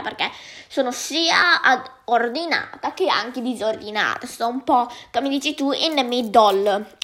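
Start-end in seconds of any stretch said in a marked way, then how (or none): 5.7-7.0 slow English words in a British accent. Shown as a demonstration. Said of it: "con questo accento molto britannico l'ho detto".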